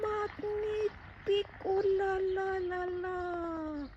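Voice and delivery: high, slow mock French gushing; french chef. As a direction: gush like a hammy French chef. Gushing over garden, mock French.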